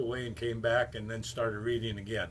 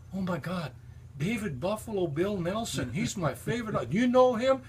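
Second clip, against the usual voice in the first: high, gushing star-struck fan voice; 7 semitones higher than usual. Retold or imitated. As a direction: squeal like a waitress meeting her idol. Waitress gushing over a famous guest.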